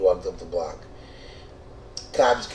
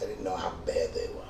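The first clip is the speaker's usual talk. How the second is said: whispered aside; 5 dB quieter, faster than usual. Real, not acted. Confiding about bed bugs.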